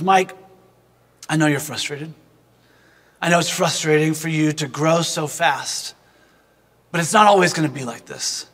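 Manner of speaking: gentle reassurance. Retold or imitated. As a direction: talk him down gently, like a kind coach. Coach comforting crying boy in car.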